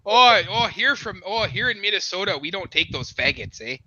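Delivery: low, falling Minnesotan with a tagged "eh"; Minnesota accent. Acted. Streamer obliges friends asking for Minnesota, put-on Minnesota accent. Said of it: "you have to talk like you're from Minnesota".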